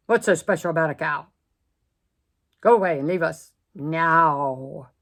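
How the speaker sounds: loud, fast dismissal; gruff lions. Acted. Lions chasing off the cow, loud and gruff. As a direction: growl her away, loud. Lions send Miss Moo away.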